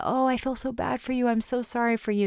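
a hint of syrupy self-pity talk; mock sympathy. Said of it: "rather than that self-pity idea".

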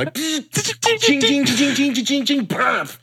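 very high playful ching noises; high ching sound effects. Retold or imitated. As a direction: squeak ching ching like ricochets. Imitates bouncing lightning sounds.

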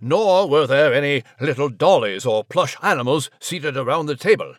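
a lightly voiced proper English gent; mild plummy Nigel voice; stuffy British mouse. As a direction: play the fussy old-chap Brit. Nigel character banter.

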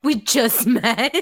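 slow, laughing through it; amused mock reply. Acting the Peters' awkward reply, laughing.

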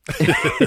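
nasal inhale sniff. Retold or imitated. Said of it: "the inhale through the nose".

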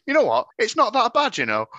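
imitating Anthony. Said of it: "a message from Anthony going".

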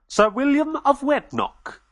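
high, slow regal voice; solemn royal pronouncement; Queen Victoria. Acted.

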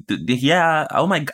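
high, stammering flustered squeak; a shocked prude stuttering high. Retold or imitated. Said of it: "I would be like".

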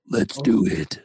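slow, put-on dramatic delivery. Shown as a demonstration. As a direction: redo it with added drama. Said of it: "I needed more drama in my voice".

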